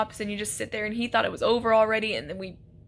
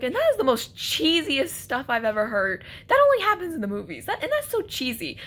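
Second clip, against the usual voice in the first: mocking cheesy romance with a laugh; laughing scorn; 3 semitones higher than usual. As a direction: scoff through laughter at the cheesiness. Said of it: "And I was like".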